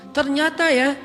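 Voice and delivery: accusing. Acted. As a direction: point the finger at him. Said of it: "ada yang sampai nuduh gini". (menuduh dengan nada mengejek)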